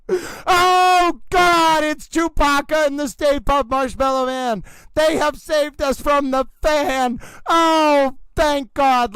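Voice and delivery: overwrought race-caller, gasping oh before each ladies and gentlemen; intense announcer voice. Acted. Announcer hypes the fan and the horses, overwrought.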